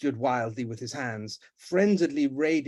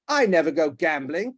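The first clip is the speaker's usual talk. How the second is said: louder denial; protesting; 2 semitones higher, 6 dB louder than usual. Acted. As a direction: protest your innocence. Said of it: "protested Guy".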